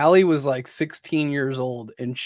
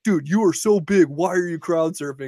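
mildly raised, mock-indignant complaint; retold annoyance; 3 semitones higher than usual. Retelling the flattened crowd scolding him, mild mock annoyance. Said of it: "everybody was pissed".

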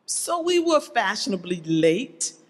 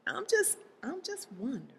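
trailing into a whisper; hushed aside; 4 semitones higher, 11 dB quieter, faster than usual. Real, not acted. Preacher softening a pointed question to the church, hushed aside. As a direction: back off softly, almost whispering.

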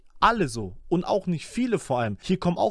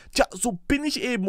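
higher mimicked rap line; pushed too high; 6 semitones higher than usual. Reactor quotes the rapper's line, pushed high. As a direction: imitate the line pitched up. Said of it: "Ticken zu hoch rausgedrückt".

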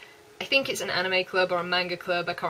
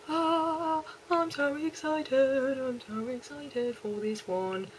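slow, drawn-out West Country accent; 6 semitones higher, 5 dB quieter, much slower than usual. Real, not acted. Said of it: "I really went back into my, uh, West Country accent".

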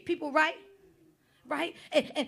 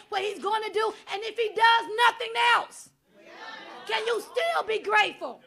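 full-force preaching; 2 semitones higher than usual. Acted. Preacher exhorting the congregation, at full force. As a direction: preach it hard and call them out.

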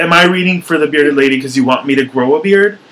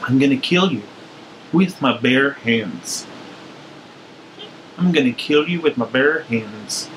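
put-on Midwestern accent; 6 dB quieter than usual. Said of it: "I'm gonna play with it".

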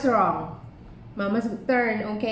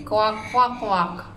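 duck quacks; much slower than usual. Shown as a demonstration. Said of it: "What did the duck say?".

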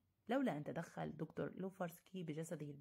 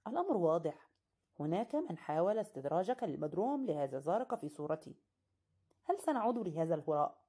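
louder, insistent argument; heated retort; 7 dB louder than usual. Acted. Narrator and host arguing loudly over the visitor. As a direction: push back hard.

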